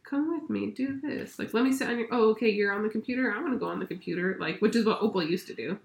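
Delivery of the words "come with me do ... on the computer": put-on toddler voice. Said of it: "Sage is like".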